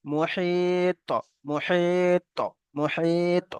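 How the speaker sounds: মুহিত with long level "hii", then a bounced heavy t; qalqalah on ত. Shown as a demonstration. Teacher modelling qalqalah, মুহিত drawn out with an echoed t. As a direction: stretch the i of মুহিত and pop the final t open. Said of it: "তাহলে তিনটে উচ্চারণ কিভাবে করব".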